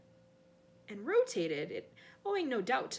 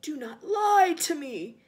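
loud, slow, furious command; menacing master catching a lie; hissed; 5 semitones higher, 11 dB louder, slower than usual. A narrator's reading. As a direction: draw out the accusation angrily. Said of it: "hissed the second voice".

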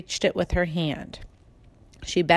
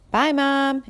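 called out; 7 semitones higher, 3 dB louder than usual. A narrator's reading. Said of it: "Andrew called".

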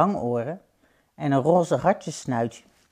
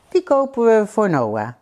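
delighted mother; 5 semitones higher, 6 dB louder than usual. Acted. Mother decides on the toy.

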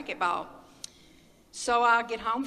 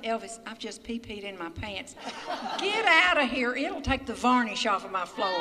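laughing through the words; can barely talk for laughing. Real, not acted. To Elvis on the floor, laughing hard. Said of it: "I'm laughing so much".

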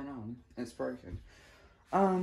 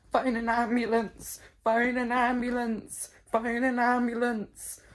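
mock emergency plea; 4 semitones higher than usual. Play-acting a medical emergency.

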